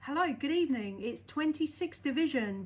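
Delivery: usual speaking voice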